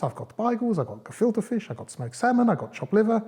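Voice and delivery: put-on high little-girl voice; high, sing-out girl listing her food; Little Red Rosenberg. A narrator's reading. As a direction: pitch it up high as the young girl. Little girl's lines in told story.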